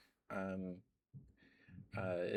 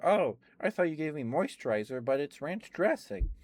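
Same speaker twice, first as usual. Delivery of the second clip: excited exclamation; 6 semitones higher, 9 dB louder than usual. Retold or imitated. Telling lady of the mix-up.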